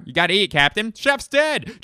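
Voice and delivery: very high, loud naval yell; hammed-up captain screaming an order; frantic movie impression. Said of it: "here's my impression of".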